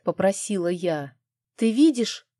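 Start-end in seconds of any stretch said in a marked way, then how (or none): 1.5-2.3 worried question. Acted. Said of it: "обеспокоенно спросила Аслы".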